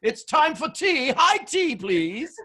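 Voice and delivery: high, loud, drawn-out mock British; hammed-up British accent, breaking into a laugh; put-on British accent. Texan coach teasing a London caller, mock British accent. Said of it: "either that's a great accent".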